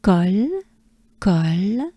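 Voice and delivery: col with a pretty open O and clear final l; open French O. Shown as a demonstration. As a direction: stretch col, opening the O wide. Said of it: "pretty open O".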